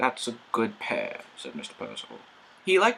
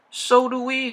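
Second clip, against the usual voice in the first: quivering; 14 semitones higher, 7 dB louder than usual. A narrator's reading. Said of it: "quivered the coaches".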